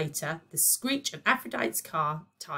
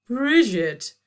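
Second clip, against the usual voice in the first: purred; 8 semitones higher, 10 dB louder than usual. Acted. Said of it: "purred Aphrodite".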